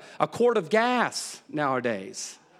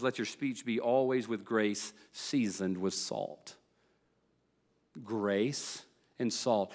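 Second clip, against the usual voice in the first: slow, weighty scripture reading; 7 semitones lower, 8 dB quieter, slower than usual. Real, not acted. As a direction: let every word of the verse land slowly.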